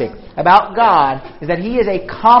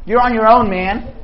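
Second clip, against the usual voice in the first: dismissive. Retold or imitated. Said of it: "watches you crying and says".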